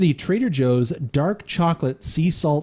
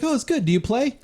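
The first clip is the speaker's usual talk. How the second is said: sketch character voice; 10 semitones higher than usual. Retold or imitated. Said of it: "he's like".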